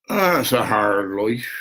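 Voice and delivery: slow, put-on Irish accent. Shown as a demonstration. Vlogger joking to himself over his glasses, Irish accent. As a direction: say it slowly with an Irish lilt. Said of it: "That's my Irish accent".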